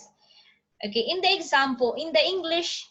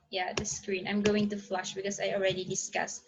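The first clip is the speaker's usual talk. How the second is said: whispered aside; 4 semitones lower, 7 dB quieter than usual. Real, not acted. Aside while flipping slides.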